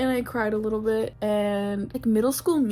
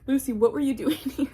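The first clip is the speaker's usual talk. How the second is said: laughing; 4 semitones higher, 4 dB louder than usual. Retold or imitated. Mocking the character's nickname.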